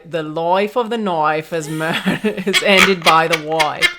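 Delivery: slow, lightly voiced posh Family Guy elocution; mock British elocution lesson; imitating Family Guy. The speaker quotes Stewie teaching proper speech in a mild mock posh voice. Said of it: "trying to teach some British baby".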